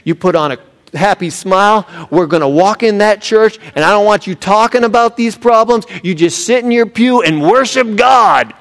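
hammed-up fed-up dad barking orders in the car; dad scolding the squabbling family on the drive to church, stern and rising; exasperated dad. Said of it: "Dad turns around and says".

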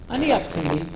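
lightly imitated Israeli Hebrew accent; English word passed off as Hebrew, Israeli accent; mock Israeli accent, dropped in deadpan; bad Hebrew accent. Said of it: "English with a bad accent".

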